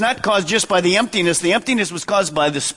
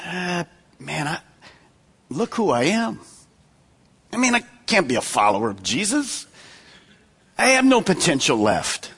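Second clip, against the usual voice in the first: hopeless Matthew; 3 semitones lower, 3 dB quieter than usual. Retold or imitated. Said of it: "had thought".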